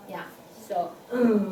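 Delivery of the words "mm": "mm" held low and level; low third tone. Shown as a demonstration. Teacher showing third tone kept low. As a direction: keep "mm" down low. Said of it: "keep it low".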